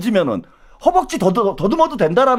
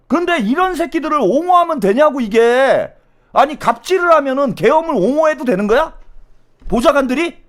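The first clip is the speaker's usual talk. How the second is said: raised, high-pitched indignant protest; really incensed, challenge them hard; outraged; 5 semitones higher than usual. Real, not acted. Host challenging defenders of martial law talk, outraged.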